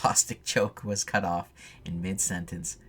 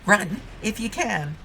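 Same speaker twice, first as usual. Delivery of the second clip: high, slow, eerie otherworldly voice; drawn-out menace, like a phantom playing with prey; slow haunting threat; creepy ghostly taunt; 12 semitones higher, slower than usual.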